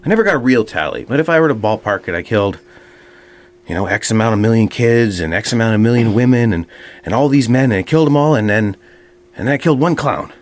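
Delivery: lightly voiced swaggering dictator; boastful Hitler. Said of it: "and he says".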